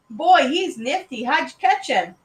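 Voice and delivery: put-on impressed boy. A narrator's reading. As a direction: marvel eagerly at your brother's find. Brother admiring the frog.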